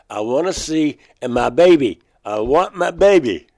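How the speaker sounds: pleading as if on the edge of tears; desperate plea. Retold or imitated. Begging the insect being to let him see the baby, a desperate plea.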